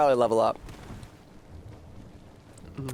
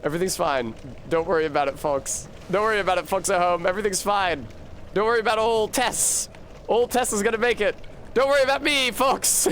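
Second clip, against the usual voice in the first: mock reassuring announcer; 5 semitones higher than usual. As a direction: pitch creeping higher, mock calm. Mock reassurance while dying.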